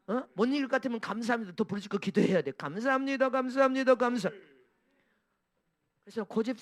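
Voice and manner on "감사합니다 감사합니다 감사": shouted thanks. Shown as a demonstration. Shouting thanks in hard times.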